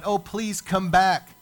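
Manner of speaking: hammed-up pleading, dragging out the first plea; mock groveling.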